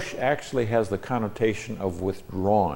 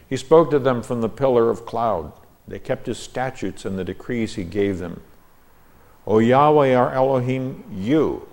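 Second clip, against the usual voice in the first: raised, declaimed verse reading; scripture reading; 5 semitones higher, 4 dB louder than usual. Real, not acted. Teacher reads out his translation of the psalm, declaimed scripture reading. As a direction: read it out as formal Bible verse.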